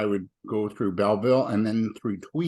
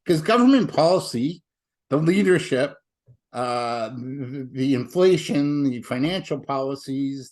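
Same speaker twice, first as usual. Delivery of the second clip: ranting; 2 semitones higher than usual. Real, not acted. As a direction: launch into a political rant. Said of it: "I have a rant warning".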